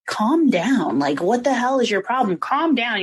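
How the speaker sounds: retold sudden outburst, pitched a little up; a hint of an angry wife flipping out; mock flare-up. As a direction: act out her flipping on him, only mildly. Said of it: "she flips and is like".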